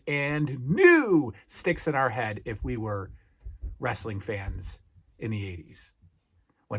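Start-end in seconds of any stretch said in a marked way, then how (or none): 0.1-1.3 announcer catchphrase. Retold or imitated. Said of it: "that phrase".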